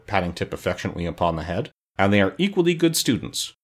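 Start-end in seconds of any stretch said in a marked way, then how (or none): 2.0-3.5 high-pitched Wogglebug pronouncement; high, self-assured announcement; proclaiming. A narrator's reading. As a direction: declare it like a fussy tutor. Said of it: "proclaimed the Wogglebug".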